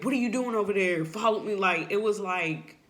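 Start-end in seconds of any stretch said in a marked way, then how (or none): 0.0-1.5 brisk, mildly cross imitation, slightly raised; rushed mock telling-off; mock angry demand. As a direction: act out a quick, scolding order. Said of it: "he said it angrily or he said it like".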